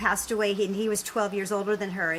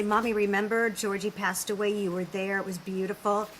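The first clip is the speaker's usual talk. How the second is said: gentle. Retold or imitated. Daughter reminds mom that Georgie passed away, gently. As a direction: remind her tenderly, without any push. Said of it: "And I did it gently".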